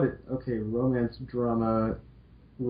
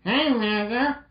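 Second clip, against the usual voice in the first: put-on higher, bright girl-robot voice; cheerful Roll voice; 12 semitones higher, slower than usual. Roll greeting Mal cheerfully in a higher voice. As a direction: play sweet Roll greeting her friend. Roll's voice.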